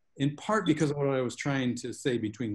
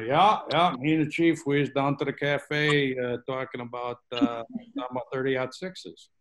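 John's voice. Retold or imitated. At a book festival, showing how his brother talks, a light folksy hometown voice. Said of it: "speaking in his voice".

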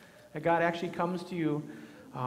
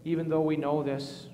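prayer. Acted. Leads a spoken prayer.

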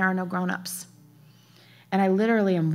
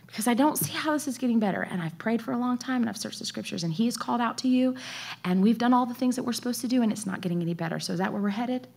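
anxious asking; 3 semitones higher, 4 dB quieter, faster than usual. Retold or imitated. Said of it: "And I asked the Lord".

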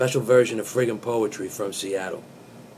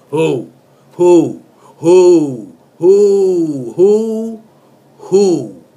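shouted who, rising in force; hammed-up yell of the song's hook; mock shout; 7 semitones higher, 11 dB louder, much slower than usual. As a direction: bellow the hook like a party cry.

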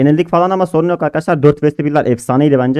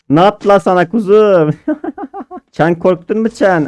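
mock pity, higher, lisping; higher cooing baby talk with a lisp; 5 semitones higher than usual. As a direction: coo at him like a baby. Baby-talking the beaten opponent.

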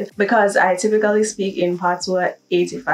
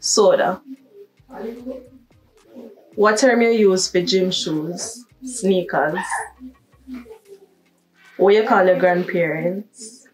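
Jamaican Patois. Shown as a demonstration. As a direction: speak in natural Jamaican Patois. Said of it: "let's switch to patois".

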